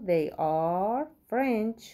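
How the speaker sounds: very slow, word by word answer; slow model reading. Shown as a demonstration. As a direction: spell the answer out for beginners. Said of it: "teacher reads model answer slowly". (خیلی آهسته و شمرده)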